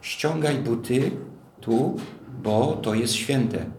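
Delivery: slow, weighty divine order, stress on ściągaj; God's solemn warning to Moses; slow solemn command. Retold or imitated. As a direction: lay it down gravely, word by word. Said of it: "co czytamy?".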